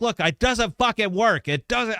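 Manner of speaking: high, frustrated mock rant; retold frustrated outburst. Boss venting at his dev team, high and exasperated. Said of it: "I was up there cussing and spitting".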